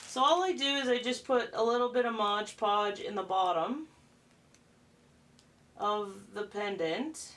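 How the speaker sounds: talking around a paintbrush held in the mouth; words blurred by something between the lips. Real, not acted. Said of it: "I have the paintbrush in my mouth".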